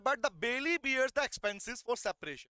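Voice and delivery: slow, deliberate reading of the law text; slow dictation. Shown as a demonstration. Teacher dictating slowly to students. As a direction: dictate each word slowly to the class. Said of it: "but कह रहा है".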